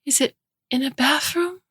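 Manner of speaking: put-on high insistent child voice; a little boy pressing for an answer; demanding toddler. Toddler demanding to know where his mother is, high and insistent. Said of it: "Jack demands".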